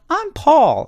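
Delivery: put-on comic high-pitched boy saying his name; funny high kid voice. Shown as a demonstration. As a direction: pop it up high like a proud kid announcing himself. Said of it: "made it funny by going".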